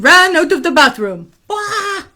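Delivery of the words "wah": short, high cartoon cry; soft, high pretend bawl; mock wail. Hurt hair running away, mock wail.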